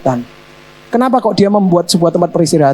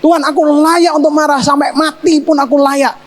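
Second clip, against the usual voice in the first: much higher, defiant insistence; stubborn acted anger, voiced high; Jonah defiant; 6 semitones higher than usual. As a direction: insist you have every right to be angry. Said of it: "Lalu Yunus ngomong sama dia".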